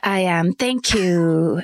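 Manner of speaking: polite British caller; mock-gracious British accent. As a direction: accept thanks in put-on British. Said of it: "deliver bad news in a British accent".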